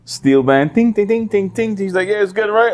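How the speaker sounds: high, hammed-up producer proud of his beat; mock producer voice. Friend mocking a producer's island beat, high and hammed-up. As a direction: squeak it out like a clueless white producer. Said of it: "He was like".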